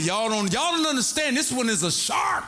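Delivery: high, laughing warning about the shark. Retold or imitated. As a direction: push it up high and chuckle through it. Warning the ladies again.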